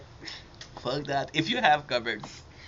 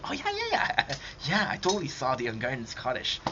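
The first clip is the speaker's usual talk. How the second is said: mock agreement. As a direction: imitate an overeager agreement with a laugh. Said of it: "you're telling me, like".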